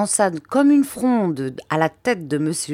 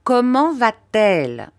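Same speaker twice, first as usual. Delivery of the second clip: quick urgent demand; eager question; 4 semitones higher, 5 dB louder than usual. Acted. Aunt pressing the doctor about the baby, urgent. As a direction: press him hard for news. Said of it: "demanda vivement ma tante".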